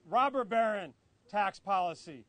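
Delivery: "robber" punched, the rest falling away; "robber" stands out above "baron tax policy"; stress on robber. Real, not acted. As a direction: put the emphasis on "robber". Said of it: "Emphasis on the robber".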